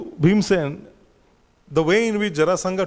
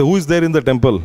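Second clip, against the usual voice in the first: calling greeting; 3 semitones lower, 5 dB louder, faster than usual. Retold or imitated. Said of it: "That's how they talk, means greeting".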